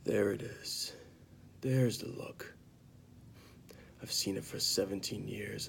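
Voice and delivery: lightly acted bitter confession, with long pauses; acted Jaime Lannister. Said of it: "I'm gonna perform it right now".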